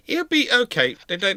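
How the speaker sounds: normal talking voice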